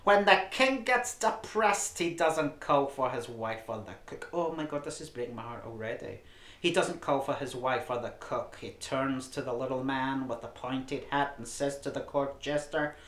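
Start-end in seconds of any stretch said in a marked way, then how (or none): 0.0-4.3 loud, slow Jewish housewife voice. Pretend. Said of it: "do your usual Jewish housewife voice". 6.6-12.9 a light Jewish housewife voice. Pretend. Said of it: "do your usual Jewish housewife voice".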